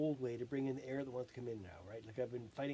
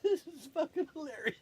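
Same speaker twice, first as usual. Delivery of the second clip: higher, louder words bursting with laughter; real laughter; 12 semitones higher, 7 dB louder than usual. Real, not acted. Laughing at himself mid-session, loudly. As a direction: laugh it out, delighted.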